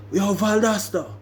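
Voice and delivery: high-pitched angry Jamaican call; mad Jamaican accent. Retold or imitated. Tony calling after Valdosta down the dorm, mad Jamaican accent. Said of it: "when I get mad, my accent will come out".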